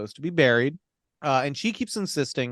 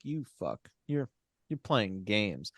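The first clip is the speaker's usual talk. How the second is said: muttered aside; 5 semitones lower, 9 dB quieter than usual. Retold or imitated. Viewer muttering at the screen.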